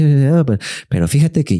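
overheard neighbor gushing; gossipy lady voice. Retold or imitated. Scene: narrator imitates gossiping housekeeper, chatty and high.

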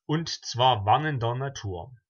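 measured, rhythmic verse with pauses between lines; poem recitation. Acted. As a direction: recite a rhyming party poem, clearly projected.

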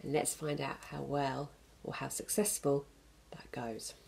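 hushed whisper building curiosity; suspense whisper. Real, not acted. Teacher whispers to children before the story starts. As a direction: whisper it like a secret.

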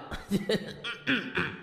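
sly chuckle. Acted. Laugh after self-correction.

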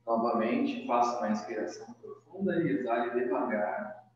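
soft, measured yoga-teacher guidance; guided breathing meditation. Acted. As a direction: guide a breath softly, leaving long pauses. Leads opening breathing meditation.

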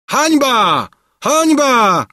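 high, loud cry of outrage; crowd's roar. A narrator's reading. Crowd crying shame on the king, roaring. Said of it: "ryczał tłum".

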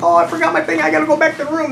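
high-pitched mimicked excuse; mock pleading. Guy asking to go back to the room, mock pleading. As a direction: imitate a flustered man, voice way up. Retold man forgetting his thing.

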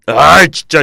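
높고 크게 터뜨리는 짜증; 답답해서 버럭 내뱉기. Real, not acted. Exasperated at viewers. (버럭 짜증)

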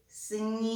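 «Сніг» with the «і» sung out long; teacher drawing out the «і» in «Сніг»; stressing a sound. Shown as a demonstration. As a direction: sing the vowel of «Сніг». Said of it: "Третій звук".

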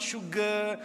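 sugar in a light Malay accent. Shown as a demonstration. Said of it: "notice I said sugar in a Malay accent".

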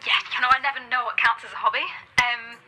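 hurried start, then spilling on; nervously running on about hobbies; nervous rambling. Acted. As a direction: ramble to fill the chat. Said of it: "she's rambling".

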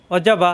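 অজাবা with every vowel short and quick; quick harakat. Shown as a demonstration. Teacher shows students short vowels in অজাবা. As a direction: say অজাবা briskly, no lengthening. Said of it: "তাড়াতাড়ি".

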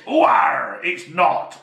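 pirate voice. Pretend. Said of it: "I should have done it in a pirate voice".

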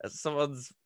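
surprised question. Retold or imitated. Stunned locals asking about taxi.

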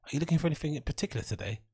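bright scripted shop assistant voice; mock customer service cheer; training manual greeting. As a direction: chirp it like a rehearsed service script. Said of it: "training manual greetings".

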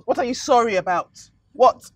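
madam berating the cleaner; angry interrogation. Acted. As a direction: demand an answer in rage.

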